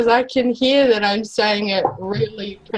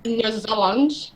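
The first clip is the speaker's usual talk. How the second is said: Australian "New Zealand"; 4 dB quieter, slower than usual. Shown as a demonstration. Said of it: "'Cause I say it real Australian?".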